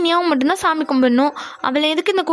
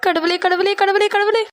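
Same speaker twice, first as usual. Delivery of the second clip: higher-pitched frightened praying; panicked plea; 4 semitones higher than usual. Acted. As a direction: plead to God as the bull comes. Bull charging, she prays for help.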